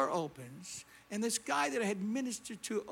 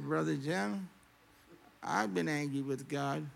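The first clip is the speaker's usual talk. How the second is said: lower, measured confession with a hint of drink; lightly voiced drunk man; 5 semitones lower than usual. Drunk man confessing to the preacher mid-service, lightly imitated. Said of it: "He said".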